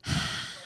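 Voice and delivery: soft voiceless sigh; sigh of relief. Shown as a demonstration. Someone finally getting to the toilet, softly relieved sigh. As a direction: let out a quiet relieved breath. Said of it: "when you go to the toilet".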